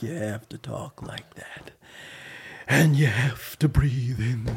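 breathy slow Jack Nicholson; Jack Nicholson impression. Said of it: "when you're doing Jack".

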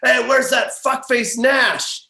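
a hint of a drunk NBA star; drunk Dirk voice. Drunk Dirk bellowing for Nash in the bar. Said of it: "super hammered".

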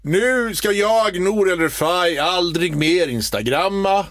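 slow, pompous farewell speech; imitating a co-host's dramatic exit; mock grand announcement. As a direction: announce it like a big solemn decision. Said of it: "du gjorde en stor sån här".

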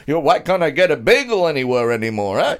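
lightly put-on rabbi accent, grumbling; a hint of an old rabbi kvetching; mock Jewish accent. Complaining to a friend as an old rabbi, lightly put-on accent. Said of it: "funny Jewish accent".

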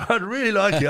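can't keep a straight face while saying it; laughing. Real, not acted. Telling the listener his reply to Alfie, breaking into laughter.

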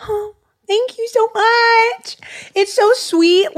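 high, slow, choked-up thanks; fighting back tears while thanking. Real, not acted. Thanking a listener for a gift, voice choking up. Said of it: "I'm trying my hardest not to cry".

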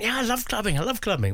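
high, hammed-up camp gush. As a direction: play it extra camp, swooning over clubbing. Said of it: "I didn't say it quite that camply".

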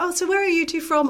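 put-on high, lofty posh British accent. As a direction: mimic a terribly posh British couple. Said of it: "I'm not gonna do the accent again".

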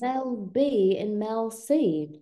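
slow, musing mock British; deliberate British marvelling; fake British accent. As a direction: muse slowly as a put-on Brit. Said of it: "with the British accent".

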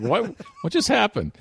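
high, laughing disbelief; mock bewilderment. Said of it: "It's like".

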